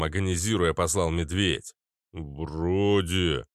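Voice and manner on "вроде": booming. Acted. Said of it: "прогудел здоровяк".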